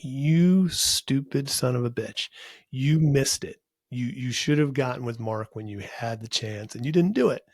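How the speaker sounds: retold self-scolding. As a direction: replay kicking yourself over a missed chance. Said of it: "I kicked myself for many a year".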